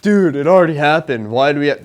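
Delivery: mildly mock a griping student; understated whiny teenager complaint; complaining voice. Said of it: "complaining voice".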